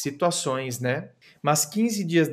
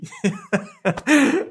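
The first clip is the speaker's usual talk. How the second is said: giggling laugh; 6 semitones higher, 4 dB louder than usual. Real, not acted. Laughing imagining the call.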